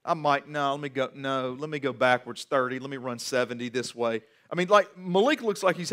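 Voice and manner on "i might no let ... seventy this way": lower, much softer, unbothered; imitating a cool quarterback. Pastor imitating a relaxed star quarterback, low and offhand. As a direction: toss it off like the game is too easy. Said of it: "Malik is out there like".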